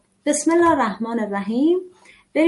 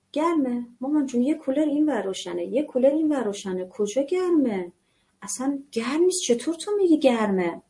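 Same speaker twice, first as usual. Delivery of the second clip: dismissive mother. Pretend. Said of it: "این کلام آشناس براتون".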